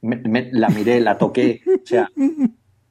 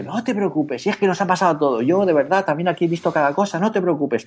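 higher, lightly voiced cheerful clerk; amused shop clerk; 7 semitones higher than usual. Shop clerk laughingly reassures the customer, higher voice. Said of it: "se pone a reírse y dice".

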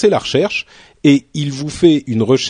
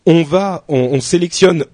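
frog in throat; 4 semitones higher than usual. Real, not acted. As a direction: voice catching on something in the throat. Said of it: "j'ai un truc dans la gorge".

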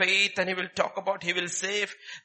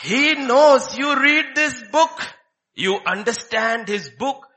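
higher and louder, punching knows; emphatic shout; 8 semitones higher, 9 dB louder, slower than usual. Acted. Preacher warning about the devil, loud emphatic call. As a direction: declare it with full force.

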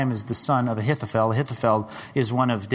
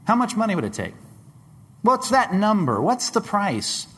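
rising pressed question; 10 semitones higher than usual. Real, not acted. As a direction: push the question harder each time. Preacher pressing the congregation.

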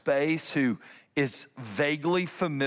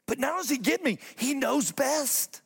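soaring emphasis; 10 semitones higher than usual. Real, not acted. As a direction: lift and stretch the last words. Preaching peak.

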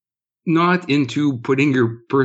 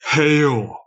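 put-on lightly accented wrestler catchphrase; half-successful impression of a wrestling character's accent; Razor Ramon; 3 semitones higher than usual. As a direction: attempt a wrestler's drawn-out greeting. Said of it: "doing a killer Razor Ramon".

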